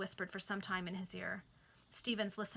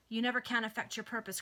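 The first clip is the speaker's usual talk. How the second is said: emphatic cry; 3 semitones higher, 5 dB louder than usual. Acted. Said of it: "cried Stevens emphatically".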